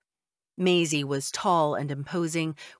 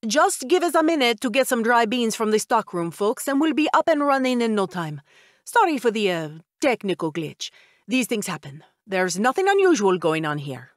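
a louder, higher call over a noisy crowd; yelling over the din; 4 semitones higher, 4 dB louder than usual. Acted. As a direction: project it to the whole room, breezy. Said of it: "yelling over the din".

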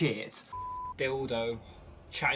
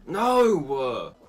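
raging gamer; 5 dB louder than usual. Real, not acted. FIFA rage at missed chance.

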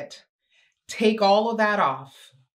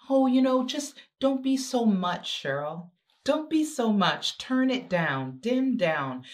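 a higher, mock-nagging voice; higher mock scolding; imitating a scold; 3 semitones higher than usual. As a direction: mimic the people who told her to tone it down. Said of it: "I used to always be told".

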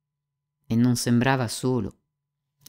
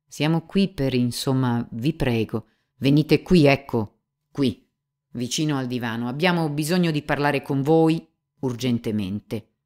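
composed but hurried; 2 semitones higher, 4 dB louder than usual. Acted. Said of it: "con compostezza, ma come se avesse poco tempo".

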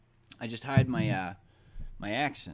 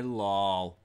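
laughing; 6 semitones lower, 5 dB louder than usual. Real, not acted. Laughs after squashing a spider.

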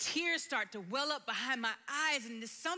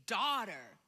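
tender word; 5 semitones lower than usual. Retold or imitated. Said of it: "I heard Jesus say to me".

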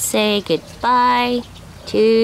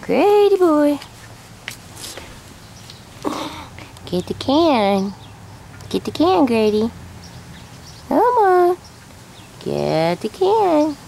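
high sing-song pet voice; teaching a parrot; 6 semitones higher than usual. Real, not acted. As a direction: coax the bird, high and sweet. Coaxing a parrot to talk.

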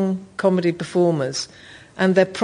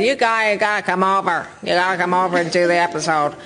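put-on American accent imitating the host; the speaker's American accent. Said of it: "Are you doing the accent".

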